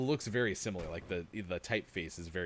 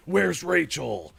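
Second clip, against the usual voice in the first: loud, high, drawn-out mock yell; big slow mock shout; hammed-up movie demand; 8 semitones higher, 11 dB louder, much slower than usual. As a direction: bellow it slowly like an overacting hero. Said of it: "You have to say".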